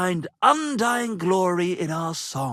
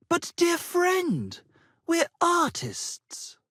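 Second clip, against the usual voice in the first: pompous excuse; 9 semitones higher, slower than usual. Acted. Pompous excuse to avoid work.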